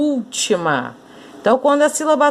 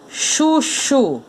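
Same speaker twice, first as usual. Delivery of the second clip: "chuchu" in two separate syllables, pitched up; 4 semitones higher than usual. Shown as a demonstration. Teacher separating "chuchu" for pupils, syllable by syllable. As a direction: break "chuchu" into two even beats. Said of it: "você vai separar a sílaba aqui".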